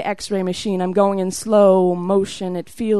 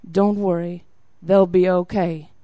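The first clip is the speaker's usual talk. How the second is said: lightly voiced comforting officer, slightly lower; 4 semitones lower than usual. Officer leans over to tearful woman, comforting. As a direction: imitate him offering understated comfort. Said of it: "to comfort this unbrave woman".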